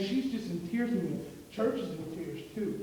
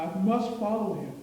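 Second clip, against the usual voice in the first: louder, firm declaration; earnest resolve; 6 dB louder than usual. Retold or imitated. Preacher voicing a believer's vow, louder. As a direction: insist with conviction.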